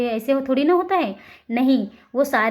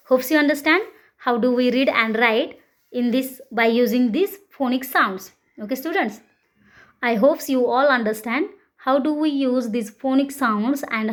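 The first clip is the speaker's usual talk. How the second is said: very slow, deliberate teacher English; slow class wrap-up; much slower than usual. Acted. Teacher closing the phonics lesson, slowly. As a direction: spell out the summary for the class.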